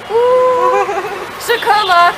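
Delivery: high, bright squeal of delight; excited squeal. Retold or imitated. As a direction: squeal over the chocolate like a kid. Retold delight at gift chocolate.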